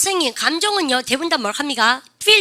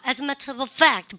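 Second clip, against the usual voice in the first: British accent; much slower than usual. Shown as a demonstration.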